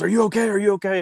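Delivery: high anxious checking in; worried high voice. Retold or imitated. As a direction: call out in high-pitched concern. Vendor running over worried.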